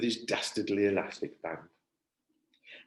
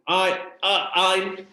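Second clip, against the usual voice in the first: stuttering; 8 semitones higher, 7 dB louder, much slower than usual. Acted. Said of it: "stuttered Harrison".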